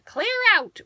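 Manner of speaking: high, loud shout; starling chasing the cats off her roof; angry starling. A narrator's reading. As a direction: shoo them off the roof.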